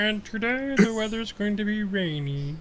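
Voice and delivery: slow, lightly put-on dwarf newsreader; S1 voicing S0 as a dwarf weather correspondent, mock slow; mock dwarf weatherman. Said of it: "he could be like".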